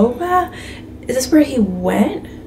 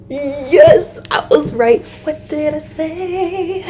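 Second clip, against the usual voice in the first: triumphant; 5 semitones higher, slower than usual. Real, not acted. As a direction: crow over a correct guess. Celebrates her correct guess.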